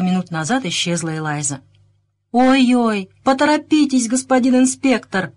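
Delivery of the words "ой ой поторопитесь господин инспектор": high, creaking plea; louder, put-on creaky urging. A narrator's reading. Samuel hurrying the inspector along, high creaky voice. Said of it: "проскрипел Сэмюэль".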